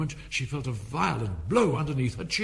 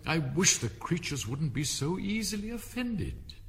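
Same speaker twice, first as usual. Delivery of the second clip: higher, lightly voiced Alice; a raised, plaintive private complaint; fretful Alice; 6 semitones higher than usual. A narrator's reading. Alice wishing to herself, higher and fretful.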